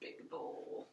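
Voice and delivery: very quiet whisper under the breath. Cooking on camera just after a crash, whispering.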